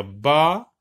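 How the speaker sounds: ba, na, ne as separate beats; syllable by syllable. Shown as a demonstration. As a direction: break the word into ba - na - ne with pauses. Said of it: "Donc, on va dire".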